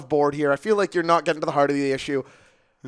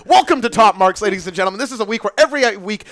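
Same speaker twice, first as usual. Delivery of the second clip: upbeat, slightly raised announcer voice; punchy podcast opening; show-host intro; 3 semitones higher, 5 dB louder than usual. Real, not acted. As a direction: launch the show for the listeners.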